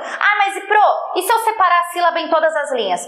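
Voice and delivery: high-pitched put-on pupil voice; protesting student. Student objecting to the teacher about splitting syllables, high mock protest.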